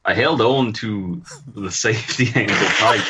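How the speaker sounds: a lightly attempted Scottish accent, laughing partway; Scottish reading voice, not quite holding. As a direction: read it in a Scottish brogue, and a stray laugh slips out. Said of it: "in your best Scottish accent".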